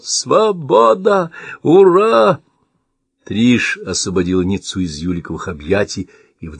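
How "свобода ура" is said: high, loud whoop of joy; joyful yell. A narrator's reading. Shvarts bursting into the room, cheering freedom, joyful yell. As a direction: throw out a happy shout. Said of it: "заорал".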